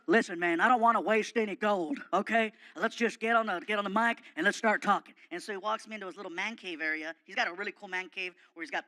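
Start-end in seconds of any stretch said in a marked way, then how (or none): 0.1-5.2 loud, barking tough-guy voice; gruff Stone Cold voice. Retold or imitated. Wrestler calls to Fluffy from his door, loud gruff bark. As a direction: play the brash wrestler calling out. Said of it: "He goes".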